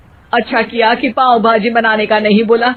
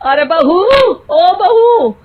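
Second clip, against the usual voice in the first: calling out; 6 semitones higher, slower than usual. Acted. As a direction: call out to her from the other room. Mother-in-law calling out. (सास का बहू को ऊँची आवाज़ में ज़ोर से पुकारना)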